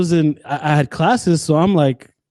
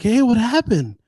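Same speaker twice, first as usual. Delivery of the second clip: higher-pitched mock-concerned question; sarcastic concern; 6 semitones higher than usual. Sarcastic guy to a crying lady, mock concern. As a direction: imitate a man feigning sympathy. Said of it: "this sarcastic guy".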